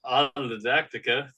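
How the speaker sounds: tripping over the word, laughing; laughing stumble. Real, not acted. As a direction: stumble through it while giggling. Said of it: "tripping over it".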